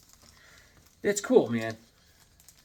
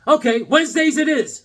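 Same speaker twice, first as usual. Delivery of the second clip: quoting Gunner, higher and louder; high mock voice; 10 semitones higher, 7 dB louder than usual. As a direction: pitch it up as Gunner. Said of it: "Psychotronic Squirt Gun's like this".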